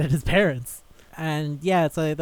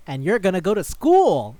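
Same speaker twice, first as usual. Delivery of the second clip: high, louder reveal with a lift on school; mock-triumphant declaration; grand announcement; 4 semitones higher, 7 dB louder than usual. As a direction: imitate a demon proudly unveiling a plan. Demon announces the plan.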